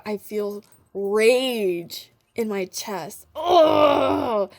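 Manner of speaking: building frustration, breaking into ugh; real rage. Real, not acted. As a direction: let the rage in the chest burst out as a groan. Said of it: "I am angry".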